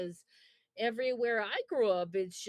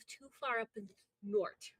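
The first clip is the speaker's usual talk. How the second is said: Wisconsin accent. Shown as a demonstration. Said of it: "It's our accent".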